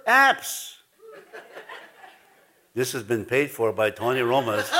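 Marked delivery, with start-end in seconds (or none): 2.7-4.7 lower-pitched mock ad disclaimer; deadpan joke sponsor credit; mock sponsor announcement.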